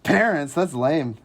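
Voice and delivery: put-on high, loud scoffing teen voice; mocking bored teen. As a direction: sneer like a bored kid. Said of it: "You guys are like".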